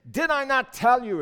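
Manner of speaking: loud, high-pitched royal complaint; indignant outburst. Acted. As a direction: throw it out as a loud I-told-you-so. King rises up to complain.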